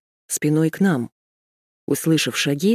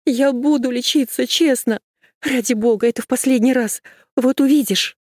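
a frantic high-pitched promise; desperate shout; 8 semitones higher than usual. Acted. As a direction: shout after him in despair. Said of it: "Машка отчаянно закричала".

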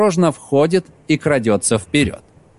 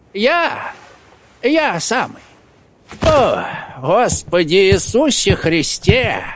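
calm; 5 semitones higher, slower than usual. Acted. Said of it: "Лука спокойно".

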